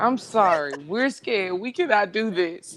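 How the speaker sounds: put-on pleading voice, almost crying. Retelling asking a teenage boy for help: retelling a near-tears plea. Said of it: "I'm damn near about to cry".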